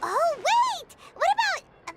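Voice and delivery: high, excited outburst; eager, high-pitched exclamation; sudden bright idea. Acted. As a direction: burst in as the idea strikes.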